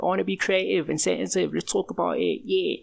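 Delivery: put-on high, sing-song sensitive boy; mock sensitive self. Telling listeners about himself next to his manly brother, high and sing-song. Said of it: "and I'm just here like".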